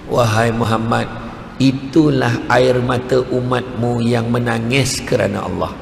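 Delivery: low, slow, gentle answer; solemn revelation. Retold or imitated. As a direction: reveal it tenderly and unhurriedly. Voices Jibril revealing the water's meaning.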